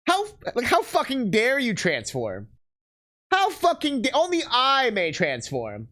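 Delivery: mock-indignant, slowed and drawn out; offended Sigma. Streamer voicing an offended Sigma, mock-indignant and slow. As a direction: play the boss scandalized that someone else transforms. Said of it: "he's, like, offended".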